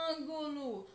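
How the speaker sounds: ÂNGULO called slowly, first syllable AN held very long; drawn-out calling. Shown as a demonstration. Teacher shows pupils the stressed syllable, calling ÂNGULO with a long AN. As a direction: stretch the AN of ÂNGULO as if calling someone. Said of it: "demora a ser pronunciada é an".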